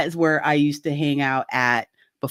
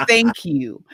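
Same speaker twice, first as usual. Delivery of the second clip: sincere thanks. Real, not acted. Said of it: "guy, whoever you were".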